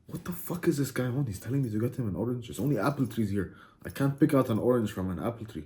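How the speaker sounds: soft, acted thinking aloud; a quietly bewildered aside; baffled muttering. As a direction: mutter to yourself in mock confusion. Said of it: "you're scratching your head and it's like".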